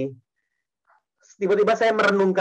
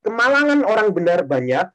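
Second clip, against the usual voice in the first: scripture reading; 2 semitones lower, slower than usual. Shown as a demonstration. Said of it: "Mazmur tiga puluh empat ayat dua puluh dikatakan".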